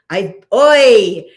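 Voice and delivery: high-pitched, outraged scolding of a grown charge; scolding nanny donkey. Acted. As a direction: play an exasperated donkey berating its rider. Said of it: "she's his nanny and he's grown up and she's scolding".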